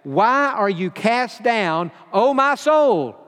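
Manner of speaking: slow, lifted lament; a hint of the psalmist pleading with his own soul. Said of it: "notice what he says to himself".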